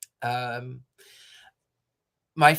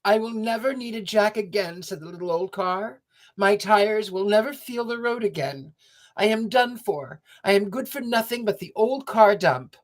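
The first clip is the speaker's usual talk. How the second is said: put-on despairing old car; 6 semitones higher than usual. A narrator's reading. Little old car lamenting again.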